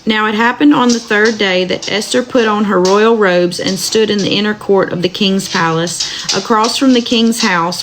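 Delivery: steady, measured Bible reading aloud; scripture reading. Acted. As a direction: read the verses evenly to listeners. Rereads the passage.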